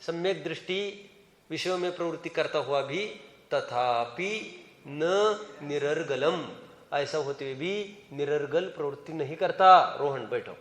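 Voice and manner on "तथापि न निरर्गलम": very slow, softer intoning of तथापि न निरर्गलम; quiet recitation. Shown as a demonstration. Teacher explaining the verse to the class, slow and soft. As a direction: draw out निरर्गलम slowly and gently. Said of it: "आत्मख्यातिकार ने स्पष्ट बोल दिया".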